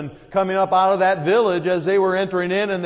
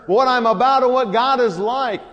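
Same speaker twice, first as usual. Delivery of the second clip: frustrated; 2 semitones higher than usual. Retold or imitated. Jesus exasperated with his disciples, building frustration. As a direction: voice the weary questions, rising. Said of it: "in frustration".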